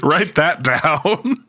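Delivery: slow, laughing tease. Real, not acted. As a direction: drag it out while chuckling. Host jokes, laughing.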